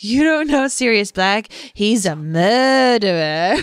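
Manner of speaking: Stan Shunpike voice. Retold or imitated. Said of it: "Stan Shunpike when he's like".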